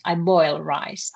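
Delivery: I boil rice said slowly, boil rising; slow translation. Shown as a demonstration. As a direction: give the better translation slowly. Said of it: "the boil is the better one".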